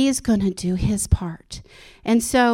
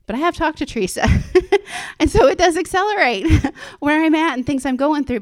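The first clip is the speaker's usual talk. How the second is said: laughing while talking; 6 semitones higher, 5 dB louder than usual. Real, not acted. Giggly aside about Teresa.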